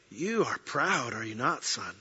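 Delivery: a still small gentle voice; Lord's quiet gentle rebuke to his son. Retold or imitated. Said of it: "still small, gentle voice said".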